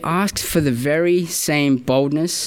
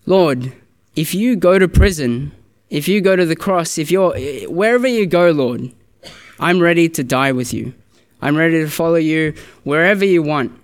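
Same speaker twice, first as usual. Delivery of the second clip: bold, confident; 2 semitones higher than usual. Acted. Disciple pledging loyalty to his Lord, boldly confident. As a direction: act out an eager, self-assured vow. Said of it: "so boldly and confidently says".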